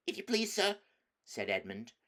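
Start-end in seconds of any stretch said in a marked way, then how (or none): 0.1-0.8 put-on high, frightened boy's plea; trembling. Edmund facing the wolf, trembling with fear. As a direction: squeak it out, scared stiff. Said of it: "trembling so that he could hardly speak".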